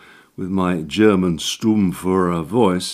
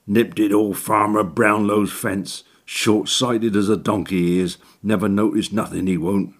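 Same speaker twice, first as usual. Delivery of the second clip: rough country workman dialect; cockney handyman. Acted. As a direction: gossip like a crafty labourer. Orton's dialect voice.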